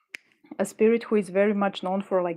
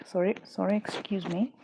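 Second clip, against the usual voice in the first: close-mic breathy apology; right in your ear; 4 dB quieter than usual. Real, not acted. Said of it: "I am breathing right into your ear right now".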